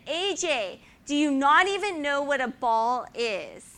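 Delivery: loud, high mock Dutch coach yelling; angry coach. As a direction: bellow it like a hot-tempered coach. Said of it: "And he said".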